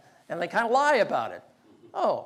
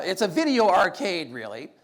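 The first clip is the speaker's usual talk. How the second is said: ordinary talk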